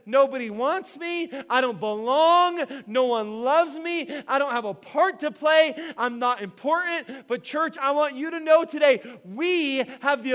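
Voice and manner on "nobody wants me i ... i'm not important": louder, slowed lament of the unwanted; voice of the orphan spirit. Acted. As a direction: cry out each rejected line. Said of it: "The orphan spirit says".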